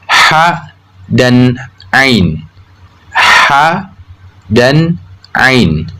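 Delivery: ha and ain made in the middle of the throat; mid-throat letters. Shown as a demonstration. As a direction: slowly show Arabic ha and ain from mid-throat. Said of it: "Tengah tenggorokan keluar dua huruf".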